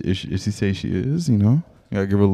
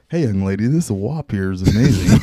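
ridiculous example; 3 dB louder than usual. Retold or imitated. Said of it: "giving a ridiculous example".

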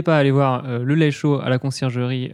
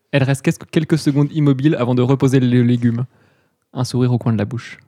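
story narration. Acted. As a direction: read it like an audio drama narrator. Narrator closes the scene.

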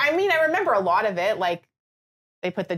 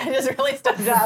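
laughing through tears; 4 semitones higher than usual. Real, not acted. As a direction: laugh it off through a blocked nose. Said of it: "You can cry".

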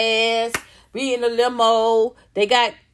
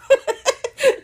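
high burst of laughter; short high-pitched giggle fit; 14 semitones higher, 4 dB louder than usual. Real, not acted. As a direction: crack up at your own joke. Laughs at her own remark.

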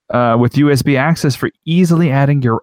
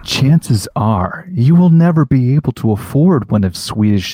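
documentary narrator. Pretend. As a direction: narrate it like a nature film. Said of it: "like a documentary".

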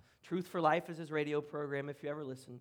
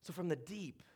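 Jonah telling friends his tale, getting more and more worked up; Jonah retelling his story; 2 semitones higher, 6 dB louder than usual. Pretend. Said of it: "use literally Jonah's words from his prayer as if he's relaying his story".

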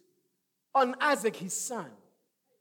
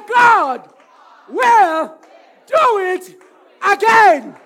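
words shouted one by one, louder; 5 semitones higher, 12 dB louder, slower than usual. Shown as a demonstration. Pastor calls the church to shout it, word by word. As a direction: hammer each word out. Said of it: "Shout it, say".

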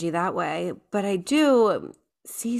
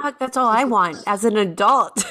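louder, laughing through the line; 2 semitones higher, 5 dB louder than usual. Real, not acted. Host admits to guest she wants it too, laughing. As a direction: laugh it out as a wry confession.

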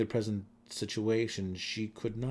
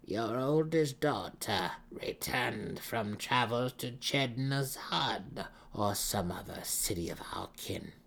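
softened tone; 2 semitones higher than usual. A narrator's reading. Matron Banray softening toward Malice, hushed and wry. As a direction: ease off with a wry smile. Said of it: "Her tone softened".

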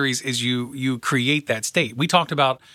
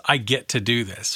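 willing, glad. Retold or imitated.

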